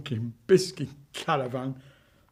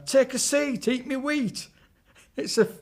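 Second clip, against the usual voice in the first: much higher sing-song witch voice; gibberish witch; 10 semitones higher than usual. Acted. Witch inviting them in, high gibberish rhyme. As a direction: babble it like a batty witch. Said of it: "She was talking gibberish".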